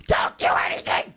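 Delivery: loud scolding parental shout; mom yelling orders. Retold or imitated. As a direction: bark the warning at a kid. Mom warning son before leaving.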